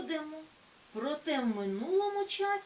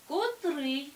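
котрИй, stress on the second syllable И, said louder; correct stress; 3 semitones higher, 6 dB louder than usual. Shown as a demonstration. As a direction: hit И in котрий. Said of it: "наголос падає на другий склад". (наголос на другому складі: котрИй)

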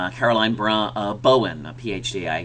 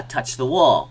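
classroom command; 2 semitones higher, 3 dB louder, slower than usual. Shown as a demonstration. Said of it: "So if I say".

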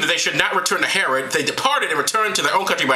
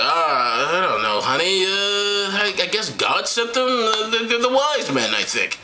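hesitant Joseph; slower than usual. Acted. Acting hesitant Joseph answering his wife.

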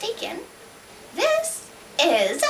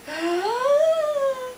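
dramatic gasp; 9 semitones higher than usual. Acted. Drawn-out suspense before the question.

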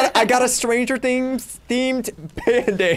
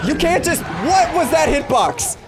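raging gamer; 3 semitones higher than usual. Acted. Raging at the game hitbox.

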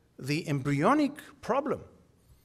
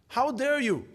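higher, louder, slowed outrage; indignant imam; 5 semitones higher, 4 dB louder, slower than usual. Retold or imitated. Imam in Brussels rebuking the audience, indignant and slow. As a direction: rebuke the room like a preacher. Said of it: "and he said".

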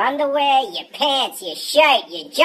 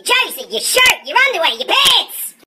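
frantic; 10 semitones higher, 4 dB louder than usual. Pretend. Frantic undressing in reverse.

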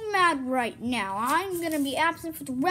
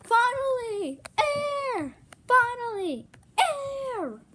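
high mocking imitation of the gasping line; 8 semitones higher, slower than usual. A friend mocking how the other said finally air, high imitation. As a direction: parrot them back, teasing. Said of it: "How'd you say".

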